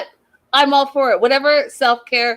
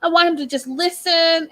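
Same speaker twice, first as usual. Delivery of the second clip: higher, whiny fake-tearful voice; much higher mock sob voice for a crying wife; mock crying Stacy; 6 semitones higher than usual. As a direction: whimper it like a hammed-up pity party. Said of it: "And Stacy's like".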